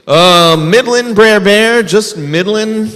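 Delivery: high, drawn-out sheepish rabbit voice. Acted. Trapped rabbit answers bear in a high sheepish voice.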